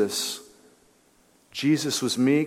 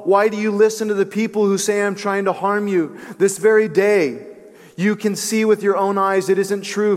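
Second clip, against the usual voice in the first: higher, earnest appeal, lightly projected; mild read-out shout; 3 semitones higher than usual. Retold or imitated. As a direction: call out your plea to the king. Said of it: "Then he shouted to Saul".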